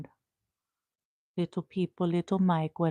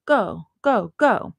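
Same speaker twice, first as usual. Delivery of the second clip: rising urgent go; 3 semitones higher, 8 dB louder, much slower than usual. Real, not acted. Rushing to walk the dog, building go go go. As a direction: hurry yourself out the door.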